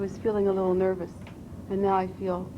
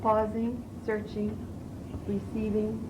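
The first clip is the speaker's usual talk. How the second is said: measured recitation, each word set apart; poetry reading. Shown as a demonstration. Student reciting as coach works on voice, measured poetry reading. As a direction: let each verb stand alone between pauses. Reads poem while being coached.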